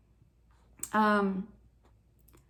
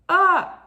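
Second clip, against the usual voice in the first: exasperated cry; 10 semitones higher, 11 dB louder than usual. Retold or imitated. Mock exasperated outburst to God.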